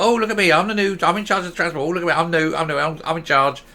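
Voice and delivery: full of herself. Retold or imitated. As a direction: crow about the new job, preening. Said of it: "she's gonna be all full of herself".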